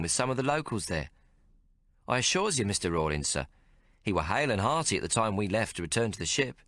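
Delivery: a sailor vouching for the captain; old sailor voice. Acted. Hollow Tree speaks up.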